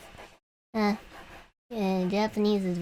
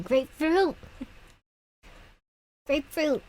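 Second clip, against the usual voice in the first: excited exclaim; 7 semitones higher than usual. Real, not acted. Gleeful over French fruit words.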